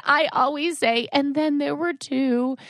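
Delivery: high, squeaky imitation of a tween; tween daughter voice. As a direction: parrot the quote in a kid voice.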